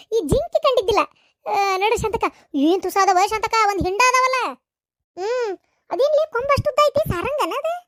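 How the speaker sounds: gushing over the herd of deer; high-pitched wide-eyed chatter; excited marvelling. Acted. Village woman marvels at deer.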